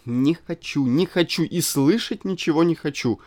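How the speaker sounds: loud, high brushing-off cry; petulant refusal. A narrator's reading. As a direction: wave him off with a whining no. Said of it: "отмахивалась она".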